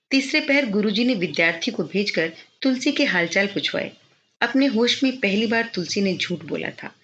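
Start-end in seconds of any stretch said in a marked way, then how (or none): none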